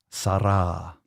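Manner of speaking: "Sarah" as sah-RAH with tapped r; rolled R attempt. Shown as a demonstration. Host retries listener's name, "Sarah" with tapped r and broad ah. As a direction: tap the r in "Sarah", open ah. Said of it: "Is the R being rolled".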